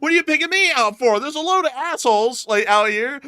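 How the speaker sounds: outraged Grinch. Pretend. Playing the picked-on Grinch, high and loud outrage. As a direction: rant like a bullied Grinch who has had enough. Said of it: "I'd be like".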